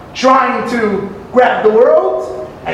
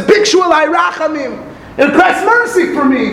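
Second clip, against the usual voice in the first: raised, pleading call for mercy; pleading cry; 6 semitones higher than usual. Acted. The penitent begging the sun and moon, pleading cry.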